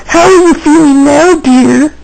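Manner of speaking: imitating a poisoner's fake concern; sweet wife. Husband imitating his wife's fake sweet concern, high mock sugary. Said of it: "she would poison me and then sit there and go".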